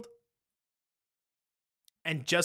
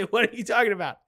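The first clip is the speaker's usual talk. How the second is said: higher, louder, playing dumb; mock confused GM; 6 semitones higher, 6 dB louder, faster than usual. Rival GM feigning confusion on the call, mock baffled. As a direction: act baffled by the hint. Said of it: "And he'd say".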